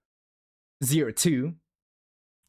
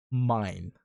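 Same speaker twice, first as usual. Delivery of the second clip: possessive; 6 semitones lower than usual. Pretend. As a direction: lightly growl it like a jealous owner.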